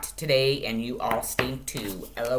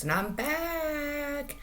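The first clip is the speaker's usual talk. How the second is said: sing-song; 12 semitones higher, 7 dB quieter, much slower than usual. Real, not acted. Playful sign-on to viewers.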